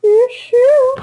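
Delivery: squawky cartoon duck voice. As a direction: quack the words like a duck. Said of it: "Are you the duck voice?".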